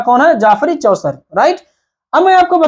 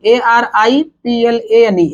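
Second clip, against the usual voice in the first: spelling out; much slower than usual. Shown as a demonstration. Teacher spelling out the word.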